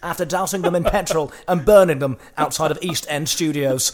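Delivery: news headline read. Acted. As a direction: read it out as an evening bulletin. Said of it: "one on the headline".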